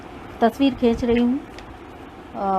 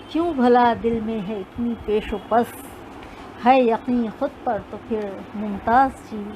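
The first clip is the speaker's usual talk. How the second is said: measured recital of couplets; poetry recitation. Acted. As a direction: recite like a poet on stage.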